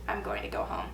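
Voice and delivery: calm and collected. Retold or imitated. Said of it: "I was literally speaking at this tone".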